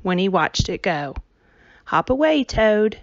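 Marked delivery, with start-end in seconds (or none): 1.9-3.0 high call across the yard; calling after. A narrator's reading. Winnie calling after the toad as it leaves. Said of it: "she called after it".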